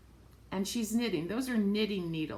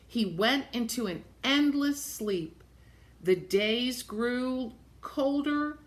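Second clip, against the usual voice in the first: put-on reading to children; 3 dB louder than usual. A narrator's reading. Reads picture book aloud.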